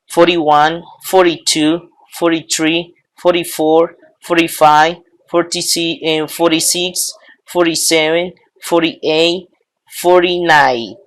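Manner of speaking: forty-one with the t tapped like a d; relaxed American flapped t. Shown as a demonstration. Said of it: "O lo pueden pronunciar".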